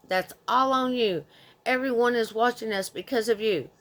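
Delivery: mock angry mother. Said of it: "And again, with".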